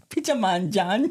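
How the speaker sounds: lightly imitated Jamaican accent; mock Jamaican accent. Co-host testing the rhyme with John, mock Jamaican accent. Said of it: "my Jamaican accent".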